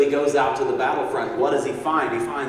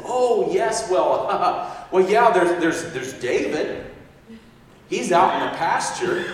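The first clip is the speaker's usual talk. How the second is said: flustered laugh; 4 semitones higher, slower than usual. Acted. Flustered father caught out.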